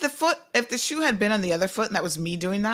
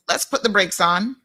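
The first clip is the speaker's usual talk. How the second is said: ordinary talk, nothing marked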